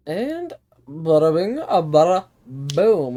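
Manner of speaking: loud, playful hype call. Pretend. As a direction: ham it up like an announcer. Hyped game kickoff.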